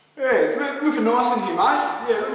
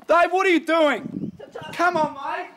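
higher, scolding shout; exasperated call; 7 semitones higher than usual. Acted. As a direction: call him out across the yard. Boss scolds worker playing frisbee.

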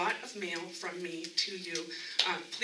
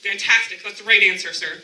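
cheerful praise; 10 dB louder than usual. Real, not acted. Praising audience member's answer.

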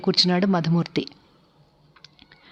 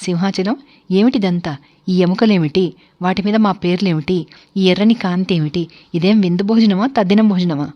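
louder, snapping, indignant questions; angry outburst; 4 dB louder than usual. Acted. Guest snapping at the host over the eerie dinner, angry and loud. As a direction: fire each question back angrily. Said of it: "కస్సుమన్నాడు".

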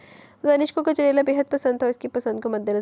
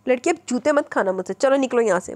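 louder stern mother; a firm, raised rebuke; 4 dB louder than usual. Acted. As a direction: shoo her out firmly. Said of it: "सख्त लहजे में".

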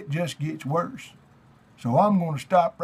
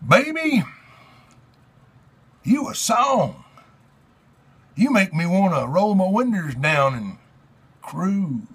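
overwrought theatrical reading of lyrics; hammy stage actor; 3 semitones higher than usual. Pretend. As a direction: declaim it like a ham Shakespearean. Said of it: "Dramatic Readings".

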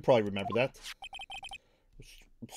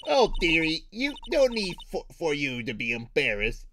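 high, slow chatty granny; old lady voice; 5 semitones higher, slower than usual. Acted. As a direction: coo at him like a grandma.

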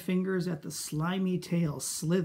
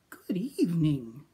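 high silky voice. Acted. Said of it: "he said in a high, silky voice".

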